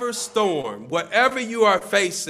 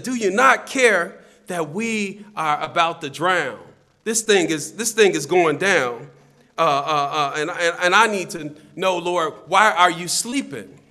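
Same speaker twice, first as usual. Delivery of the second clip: louder, urgent appeal to the Lord; alarmed plea; 7 dB louder than usual. Acted. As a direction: plead urgently as a frightened disciple, voice raised. Voices alarmed disciples in storm.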